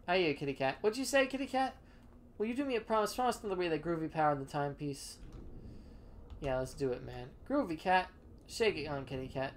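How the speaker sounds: slick hipster sweet-talking a deal; jive cat voice. Acted. Jive character pitches his deal.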